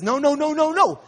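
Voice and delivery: rapid-fire nos, rising in pitch; alarmed refusal. Retold or imitated. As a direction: imitate a friend flatly refusing. Friend refuses the dangerous bridge.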